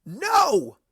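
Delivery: loud high shout; resounding no. Acted. Worn-out friends answer Pinkie, loud high shout. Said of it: "came the resounding answer".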